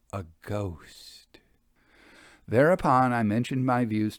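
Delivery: put-on measured storytelling read of an old travel memoir; unhurried audiobook narration with light colour; story narration. A narrator's reading. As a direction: read it like a gentleman recounting his tour. Reads Victorian travel narrative aloud.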